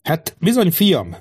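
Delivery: lightly smiling king, lifted pitch; a touch of amused indulgence. A narrator's reading. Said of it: "jegyezte meg mosolyogva a király". (enyhén mosolygós, derűs hang)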